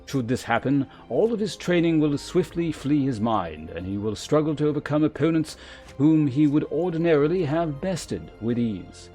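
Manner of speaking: formal, measured mentor with deliberate emphasis; lancer guildmaster. Acted. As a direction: instruct a pupil with grave authority. Voices the lancer guildmaster's dialogue again.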